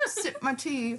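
badly faked British tea sipper; terrible British accent. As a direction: play a British gent, softly and badly. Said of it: "That was a terrible British accent".

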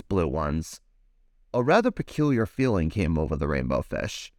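put-on lively read-aloud for children; animated picture-book reading; storybook narration. A narrator's reading. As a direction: tell it like bedtime story time.

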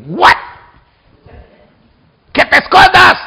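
high, mock-incredulous outburst; indignant disbelief. The speaker answering his brother who said hide, indignant disbelief. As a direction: throw it back in disbelief.

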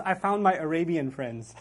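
lightly laughing as quoting; amused retelling. Retold or imitated. Lecturer retelling professor's cute remark, amused. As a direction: let a chuckle into the quote.

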